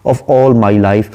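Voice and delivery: slow, measured poem reading; unhurried English verse reading; poem recitation. Shown as a demonstration. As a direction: recite the line slowly, savouring it. Reads poem line slowly.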